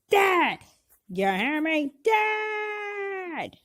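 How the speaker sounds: mock threat. Vowing revenge on Thanos.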